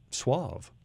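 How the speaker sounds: lightly voiced smooth suave word; a hint of a crooner saying suave. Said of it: "get your voice to be so".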